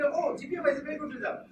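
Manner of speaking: fast, jumping in before he finishes; eager interruption, fast; cutting in quickly. Shown as a demonstration. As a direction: rush in over his words. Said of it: "I didn't give him any time".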